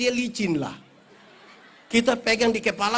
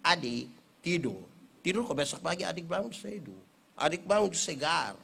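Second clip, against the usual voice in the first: gentle coaxing; 3 semitones lower than usual. Shown as a demonstration. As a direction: lull the little one gently. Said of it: "kasih tahu dia baik-baik".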